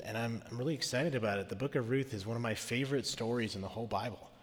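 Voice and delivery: rough raspy voice from a cold; hoarse, getting over a cold; smoker's voice. Real, not acted. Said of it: "I have this wonderful smoker's voice".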